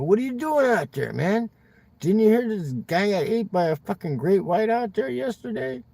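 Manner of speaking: a hammed-up beach crowd hollering at swimmers; retold yelling. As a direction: call out the warning from the shore. Beachgoers yelling warnings at him.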